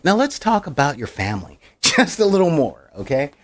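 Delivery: a hint of a folksy goody-goody doctor; Ned Flanders. Doctor coaxing a patient about family, lightly mimicked chirpiness. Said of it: "expect Ethan Hawke to be like".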